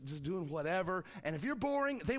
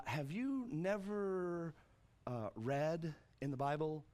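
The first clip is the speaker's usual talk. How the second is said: slow, drawn-out teasing question; Jesus turning the mockery on the priests, slow; making fun; much slower than usual. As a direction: tease them back, slowly. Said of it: "So he's making fun of them now".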